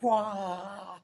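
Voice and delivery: put-on high, delighted cheer like a kid; excited whoop. Dagger's owner cheering the final ride, high gleeful whoop. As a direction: let out a gleeful kid's yell. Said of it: "and he's like".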